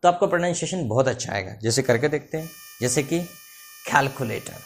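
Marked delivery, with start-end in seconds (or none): 3.8-4.6 कैलकुलेटर with a breathy aspirated kh, khalkulator. Shown as a demonstration. Teacher showing students the aspirated kh in कैलकुलेटर. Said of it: "का को थोड़ा सा खा बोलेंगे".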